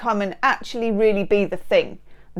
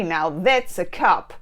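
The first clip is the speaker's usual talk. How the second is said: slow, hammed-up Australian accent; bad Australian accent; 3 semitones lower than usual. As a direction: put on a rough Australian twang. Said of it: "Sorry for the bad Australian accent".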